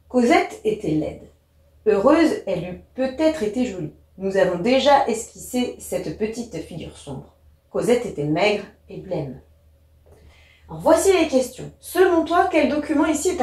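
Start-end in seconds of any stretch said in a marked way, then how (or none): 0.1-9.4 sober, slightly softened novel reading; understated literary narration; story narration. A narrator's reading. Reads the novel extract.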